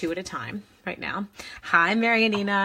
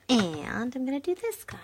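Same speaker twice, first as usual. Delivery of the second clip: whisper; 6 semitones higher than usual. Real, not acted. Whispered aside while stamping.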